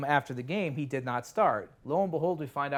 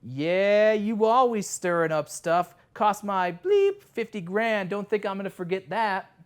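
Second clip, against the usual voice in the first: louder, higher, slower imitation of an angry player; hammed-up grudge, jabbing each line; retold angry confrontation; 5 semitones higher, 6 dB louder, slower than usual. Jerry confronting reporter, retold.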